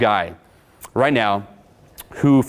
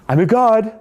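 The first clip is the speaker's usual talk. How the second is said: mock triumphant; 10 semitones higher, 5 dB louder than usual. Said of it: "you're still gonna be like".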